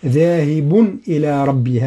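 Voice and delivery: "ذاهب إلى ربي" slowly, the tanween of ذاهب clear with no nasal hum; izhar without ghunna. Shown as a demonstration. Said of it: "هكذا". (إظهار التنوين في "ذاهب" بلا غنة)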